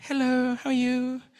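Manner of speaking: put-on speaking like a small child. A teacher showing how they sometimes speak in class, speaking like a child. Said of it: "I'll speak like a child".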